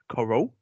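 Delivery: "Coral?" with a questioning lift; wife's Essex pronunciation. Retold or imitated. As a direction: say "Coral" as the Essex wife does, rising. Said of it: "she did say coral".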